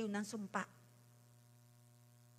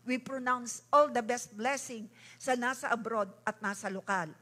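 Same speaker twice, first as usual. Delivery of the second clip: ordinary delivery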